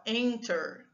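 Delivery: "Enter" with a strong first syllable; stress on first syllable. Shown as a demonstration. Teacher showing the tonic syllable, "Enter" stressed on "En". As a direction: lean on the "En" in "Enter". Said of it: "a sílaba tônica é a primeira".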